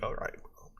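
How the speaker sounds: breathy whisper of mock reluctance; whispered aside. To fans' wives, whispering sly consent.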